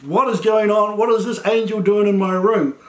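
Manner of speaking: lightly acted startled freak-out. Young girl finds an angel in her room, mildly freaking out. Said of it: "she's probably freaking out at that point".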